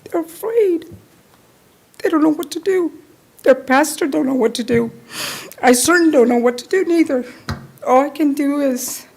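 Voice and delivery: pushing through real emotion, voice lifted; emotional. Real, not acted. Pleading to the council for her frightened community, near tears. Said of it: "I'm so emotional".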